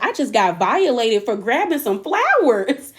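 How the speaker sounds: drawn-out, sarcastic imitation of a wronged kid; mock-hurt sarcasm. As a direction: play up being wronged, slowly. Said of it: "he was doing it sarcastically".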